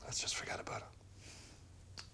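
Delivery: slow soft whisper. Acted. Boyfriend smoothing over the accusation, slow whispered soothing. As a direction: soothe her into dropping it.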